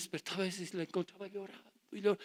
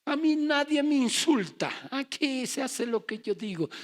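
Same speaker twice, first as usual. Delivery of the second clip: higher, loud and slow, a boastful tough man; arrogant macho; 9 semitones higher, 6 dB louder than usual. Retold or imitated. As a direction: lay down the law like a proud bully. Proud worldly man boasting.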